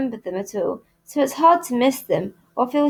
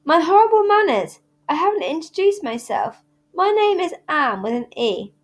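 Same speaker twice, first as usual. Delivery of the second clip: dramatic dismay; 7 semitones higher than usual. A narrator's reading. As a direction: gasp at her own bad manners. Anne dramatically remembers manners.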